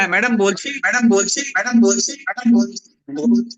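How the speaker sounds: cathedral echo. Real, not acted. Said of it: "কিন্তু খুব ইকো হচ্ছে".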